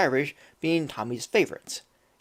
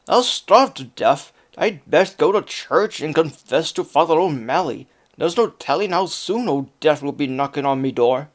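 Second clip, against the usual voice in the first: louder, fretful Irish lament; wailing Irish accent; 5 dB louder than usual. Acted. Lazy Jamie fearing starvation in an Irish accent. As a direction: moan about dying in an Irish brogue. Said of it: "wailed Jamie".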